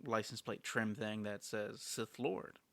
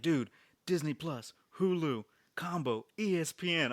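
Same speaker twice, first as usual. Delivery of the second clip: higher and a bit louder, rattling off the streaming bundle; excited list; 5 semitones higher, 4 dB louder than usual. Retold or imitated. Retelling the stranger hyping his streaming bundle. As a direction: hype up the bundle like a thrilled fan. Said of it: "He's like".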